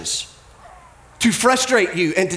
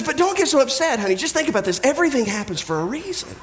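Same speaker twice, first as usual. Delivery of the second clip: placating husband; 3 semitones higher, faster than usual. Acted. Husband placates his angry wife.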